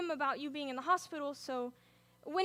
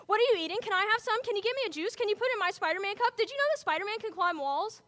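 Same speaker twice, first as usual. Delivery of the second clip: put-on little kid voice; 3 semitones higher, faster than usual. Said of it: "Timmy drives me crazy with his million, zillion questions".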